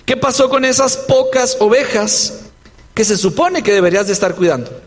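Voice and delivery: lightly acted mockery, quickening at the end; a touch of taunting; mocking. Older brother belittles David's few sheep, lightly mocking. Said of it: "note el tono burlesco".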